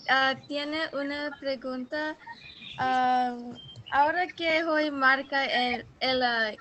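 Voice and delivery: Spanish with a heavy American accent; careful, halting learner's Spanish. Real, not acted. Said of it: "mi español no es bueno". (español con acento estadounidense)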